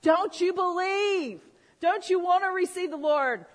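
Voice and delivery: loud, high altar-call challenge; confrontational plea. Retold or imitated. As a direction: re-enact a preacher pressing someone hard. Retells confronting uncle over microphone.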